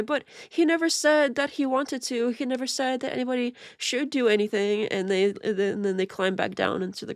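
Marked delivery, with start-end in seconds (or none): 0.0-4.9 a high mock voice for his echoing fans; mocking parrot fans. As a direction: squawk it like a fawning parrot defending its master. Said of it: "And they'll be like".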